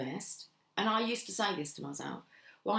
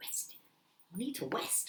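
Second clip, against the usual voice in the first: comic cartoon lisp, higher pitch; 3 semitones higher, 5 dB quieter than usual. Speaker repeating a word they mispronounced: lisping like Daffy Duck. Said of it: "Sound like Daffy Duck".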